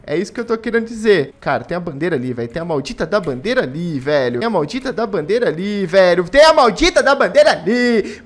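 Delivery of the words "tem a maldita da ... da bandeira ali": building frustration. Real, not acted. Repeated in growing frustration.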